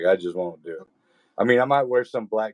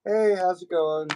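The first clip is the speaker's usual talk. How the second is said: voice for women; 9 semitones higher than usual. Retold or imitated. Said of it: "be like".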